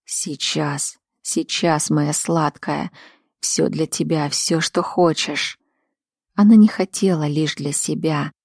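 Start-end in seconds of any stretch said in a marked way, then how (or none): 0.1-5.6 tender murmur. Acted. Lover soothing her, tender murmur.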